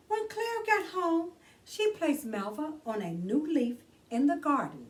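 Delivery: put-on bright read-aloud for children; gentle children's book narration; storybook reading. A narrator's reading. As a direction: read it like story time for kids. Reads picture book aloud.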